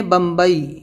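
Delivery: بمبئی ending in a clear "a-ee" glide; model pronunciation. Shown as a demonstration. Teacher shows students the sound as in the city name, model pronunciation. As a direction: say بمبئی with the final vowel as "ai". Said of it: "اس کی آواز رہے گی جیسے ہم لوگ بولتے ہیں".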